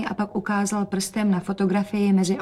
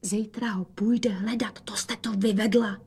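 whisper; 5 dB quieter than usual. Acted. Rozetka whispers reproach to mother about the cat. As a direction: hiss it softly so father won't hear.

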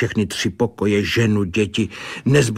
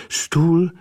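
raised, intent seer voice listing what she sees; a medium reporting a vision, higher; trance vision voice; 6 semitones higher than usual. A narrator's reading. Clairvoyant describing the brewer's home, raised trance voice.

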